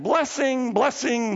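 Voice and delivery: high, repeated proclamation with falling ends; proclaimed prophecy. Acted. Balaam prophesies over the people of Israel, proclaiming. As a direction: call out each word like a prophet. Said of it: "He prophesies again".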